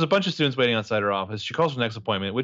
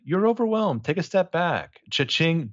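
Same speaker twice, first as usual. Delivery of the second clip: mock Mona voice; 6 semitones higher, slower than usual. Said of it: "the Mona's like".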